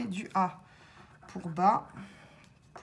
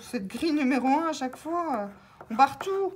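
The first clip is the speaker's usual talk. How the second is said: exasperated; 4 semitones higher, 4 dB louder, faster than usual. Real, not acted. Grid lost every time.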